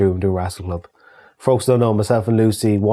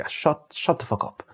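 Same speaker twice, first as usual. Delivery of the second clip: weary exasperation; slower than usual. Retold or imitated. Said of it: "anyone in the Republic are like".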